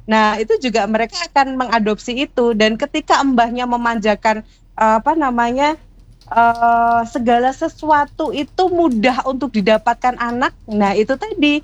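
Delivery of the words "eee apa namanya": normal talking voice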